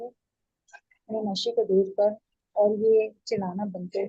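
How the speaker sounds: a mild mock rebuke from the priest; angry scolding. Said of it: "गुस्से से डांटता है".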